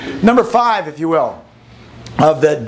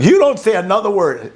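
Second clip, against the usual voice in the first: scolding mom; 6 semitones higher than usual. Retold or imitated.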